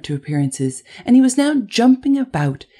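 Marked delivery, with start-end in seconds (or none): none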